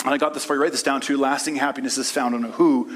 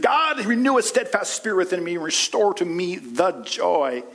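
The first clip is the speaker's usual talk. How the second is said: high, earnest plea to God; preacher voicing David asking for joy; David's prayer; 5 semitones higher than usual. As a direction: pray it with longing. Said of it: "He said".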